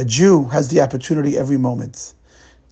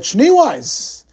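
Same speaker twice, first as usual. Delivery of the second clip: high, loud call of a name; shouted summons; 10 semitones higher, 4 dB louder than usual. A narrator's reading. SS officer calls in Schneeweiss, loud shouted name. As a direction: yell the name across the room.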